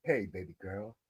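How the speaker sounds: low, soft put-on AI greeting; mock AI voice. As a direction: croon it like a smooth chatbot. Imitating the AI's greeting again.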